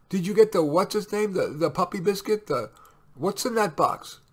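high, loud flustered wife; fussing wife. A narrator's reading. Wife quizzing husband about parcels, high fussing. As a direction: fumble for the word as the wife.

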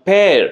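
পেয়ার stretched out as the stressed syllable; lengthened, stressed পেয়ার; drawn-out stress. Shown as a demonstration. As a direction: lean on পেয়ার and draw it out. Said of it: "টেনে যেন বলতে হচ্ছে".

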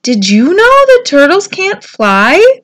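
high, loud call from above. A narrator's reading. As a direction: shout it down to the pond. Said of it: "he called down".

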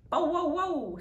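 high, loud bow wow; dog barking. A narrator's reading. Bitzer Maloney barks up the tree, high and loud. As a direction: bark out like a big dog. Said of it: "said Bitzer Maloney".

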